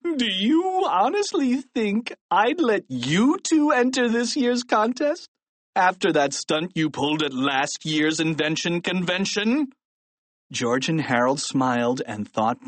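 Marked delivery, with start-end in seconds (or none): 0.0-9.7 scornful principal. A narrator's reading. Principal refusing the boys entry after their stunt, scornful.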